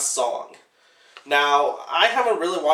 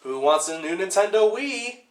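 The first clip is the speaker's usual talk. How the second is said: lightly imitated out-of-nowhere sales pitch, rising to "Huh?"; mock product plug; 2 semitones higher than usual. Movie dad suddenly plugging a Wii to his family, mock sales pitch. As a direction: pitch it like a clumsy plug, lifting the end. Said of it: "just out of nowhere goes".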